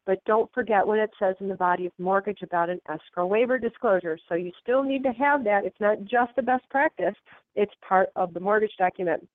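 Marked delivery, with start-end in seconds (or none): 4.3-9.3 blocked nose from a cold; talking through a stuffy nose. Real, not acted. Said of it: "I'm so sorry I sound all stuffy".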